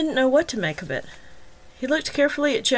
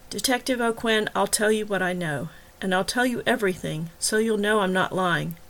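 calm and intent. Acted. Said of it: "speaking just as calmly and intently".

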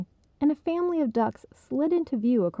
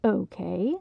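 through gritted teeth. Acted. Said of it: "through lightly gritted teeth".

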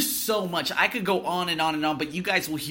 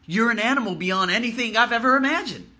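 angry; 7 semitones higher, 5 dB louder than usual. Real, not acted. Ranting at coworkers who betrayed him.

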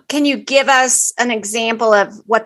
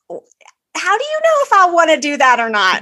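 higher-pitched, indignant challenge; mock-exasperated comeback, pitched up; retold indignant retort; 5 semitones higher than usual. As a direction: act out pushing back at mom. Retells snapping back at mom.

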